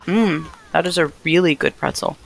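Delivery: chewing while talking; soft words through a mouthful; crunching chips. Real, not acted. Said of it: "Sorry for the crunching".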